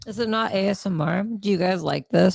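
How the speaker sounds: teasing ASMR chewing; chewing while talking. Real, not acted. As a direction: chew into the mic on purpose. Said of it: "stop chewing in the mic".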